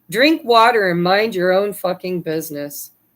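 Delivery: ordinary delivery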